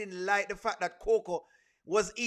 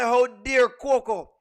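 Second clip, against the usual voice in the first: louder, indignant mock quote breaking into a laugh; mock outraged shout; 10 dB louder, much slower than usual. Mimicking angry fans to her viewers, loud and laughing. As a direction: ham up the fans' outrage. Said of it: "Them say".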